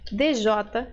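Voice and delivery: slow, the sounds D J drawn out one by one; slow dj sound demo. Shown as a demonstration. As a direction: say D J like dj, slowly. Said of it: "pode ser".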